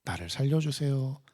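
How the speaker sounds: gently imitated entreaty to God; earnest prayer. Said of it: "간절하게 기도합니다".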